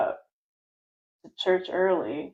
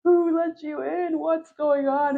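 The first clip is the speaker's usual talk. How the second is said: higher, hurried panic of a pastor; mock panic, caught off guard; imitating a flustered youth pastor's alarm; panicked pastor; 8 semitones higher, 3 dB louder, slower than usual. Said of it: "And he's panicking".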